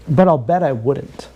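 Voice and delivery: "But I'll bet I wouldn't" drawn out slowly. Shown as a demonstration. Repeating his bet to the viewers, slowed down. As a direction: lean on it and slow down.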